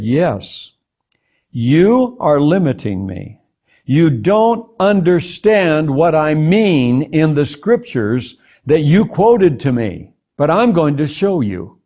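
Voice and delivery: slow, measured correction, each word weighed; stern rebuke. Retold or imitated. God corrects the man's reading of scripture, retold as slow stern rebuke. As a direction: retell an authority firmly setting someone straight. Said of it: "like you really rebuked me".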